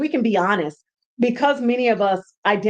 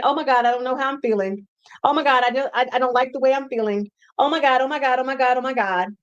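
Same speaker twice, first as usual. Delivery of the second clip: mock panic; faster than usual. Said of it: "as opposed to saying".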